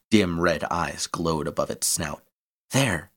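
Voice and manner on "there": cry out. Acted. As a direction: call out There! as you fire. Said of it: "Fang cried and fired".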